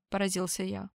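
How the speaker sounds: plain reading voice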